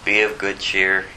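lightly voiced calm Jesus, "Be of good cheer" said evenly; steady the scared men, gently; reassuring Jesus. Jesus calling to the frightened disciples, calm and reassuring. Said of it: "So Jesus has to say".

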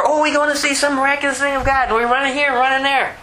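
fast, high-pitched eager miracle chaser; hammed-up thrill-seeker chatter; mock excitement. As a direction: imitate a breakneck rush to see. Mimics miracle chasers running about.

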